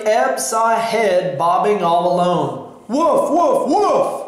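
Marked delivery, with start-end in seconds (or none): 2.9-4.2 three high woofs, climbing in pitch; mock loud barking. A narrator's reading. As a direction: imitate urgent barking without really shouting. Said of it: "barked as loud as she could".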